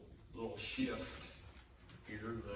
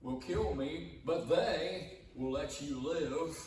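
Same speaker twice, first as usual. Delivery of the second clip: fearful Abram; 6 semitones higher, 5 dB louder, slower than usual. Acted. Preacher voicing Abram's fear.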